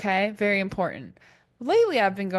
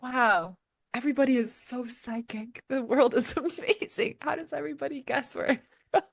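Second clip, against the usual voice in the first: mock amazed; 3 semitones higher than usual. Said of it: "I'm just like".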